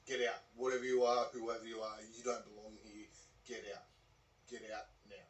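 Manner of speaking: firm retold order, loud at first then dropping away; out-loud command. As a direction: order an intruder out, easing off at the end. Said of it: "He says it out loud".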